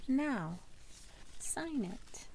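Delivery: soft, gentle prompt from the teacher; teacher speaking softly to Vashti, quiet; quietly said. Acted. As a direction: softly nudge her to sign it. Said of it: "and quietly said".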